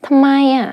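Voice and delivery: questioning ทำไมอะ; rising question tune. Shown as a demonstration. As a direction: lift the tone on ทำไมอะ. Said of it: "You raise your tone up".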